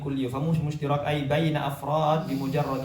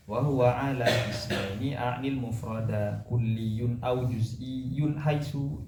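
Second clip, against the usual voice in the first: slow reading aloud; slower than usual. Shown as a demonstration. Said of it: "Namanya hamzahnya hamzah wa-, wasol".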